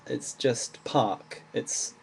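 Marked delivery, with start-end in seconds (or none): 0.8-1.4 "park" with a long AH, R not pronounced; English "park", R only changes the vowel; silent R. Shown as a demonstration. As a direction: say "park" without sounding the R. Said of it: "You don't really pronounce the R".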